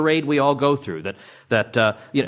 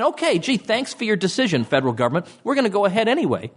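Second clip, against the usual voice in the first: mock polite brush-off; 7 semitones higher than usual. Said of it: "these people are just saying".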